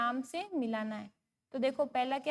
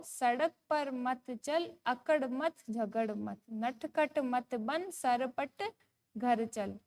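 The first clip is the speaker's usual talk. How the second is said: slow, measured sing-song recital; poem recitation; much slower than usual. Shown as a demonstration. Teacher reading a poem to young pupils, slow sing-song. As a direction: read each word out slowly for children to follow.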